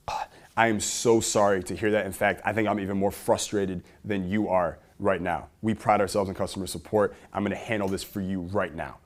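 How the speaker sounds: earnest, heartfelt apology opened on a sigh; sharing their frustration. Shown as a demonstration. Support rep to a frustrated customer, sincere and empathetic. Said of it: "share in their frustration first".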